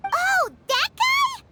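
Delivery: disgusted disbelief. Acted. Paimon reacts to hated father.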